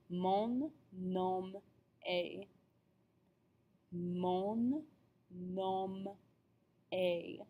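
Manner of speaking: "est" said as "ay", the s and t silent; word-by-word French, "est" sounding like "ay"; pronunciation demo. Shown as a demonstration. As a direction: slowly model "est" as a clean "ay". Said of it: "the E S T is pronounced A".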